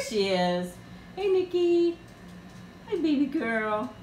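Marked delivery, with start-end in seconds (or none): 1.2-3.9 dog greeting. Real, not acted.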